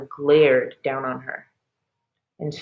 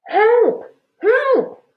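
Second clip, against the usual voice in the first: high, loud desperate cry; whimpering; 6 dB louder than usual. A narrator's reading. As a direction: plead like you're trapped. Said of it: "a muffled voice whimpered".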